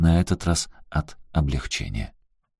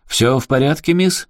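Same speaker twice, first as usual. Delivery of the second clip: вежливый управляющий; 8 semitones higher, 4 dB louder than usual. Acted. Управляющий подходит к ссорящимся.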